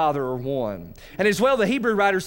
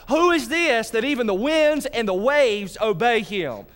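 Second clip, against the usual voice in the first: amazed disciples; 6 semitones higher than usual. Retold or imitated. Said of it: "They're like".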